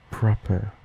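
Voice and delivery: proper with a British "er" ending; British accent. Shown as a demonstration. Contrasting Australian with British accent, "er" ending. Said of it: "In a common British accent".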